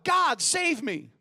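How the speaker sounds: slow, pleading mock cry for help; a hammed-up frightened call to God; mock shout. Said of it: "the atheist shouts out".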